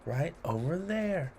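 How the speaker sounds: playful rhythmic read-aloud; poem reading. A narrator's reading. Host reading a cheese poem to children, playful. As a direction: lilt through the rhymes for kids.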